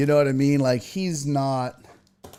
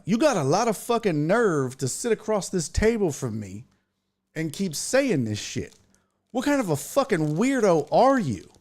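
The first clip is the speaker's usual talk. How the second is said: indignant, higher-pitched telling-off; acted-out angry challenge; retold confrontation; 5 semitones higher than usual. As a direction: call him out in disbelief. Retells confronting the joker.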